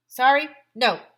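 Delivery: loud, high British no; flatly refuse, politely British; British accent. Acted. Guinness lady refusing again, British accent. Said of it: "said the Guinness lady".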